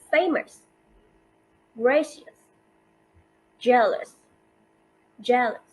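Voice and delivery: "famous", "gracious", "jealous", each alone with a strong first syllable; first-syllable stress. Shown as a demonstration. Teacher gives two-syllable examples, "famous", "gracious", "jealous" stressed on first syllable. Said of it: "their stress on the first syllable".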